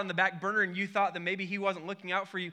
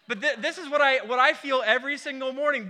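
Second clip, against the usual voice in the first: laughing; 4 semitones higher, 4 dB louder than usual. Real, not acted. Laughing at his own story.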